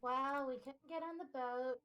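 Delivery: breaking up; choppy dropping audio; mic cutting out. Real, not acted. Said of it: "You're breaking up real bad".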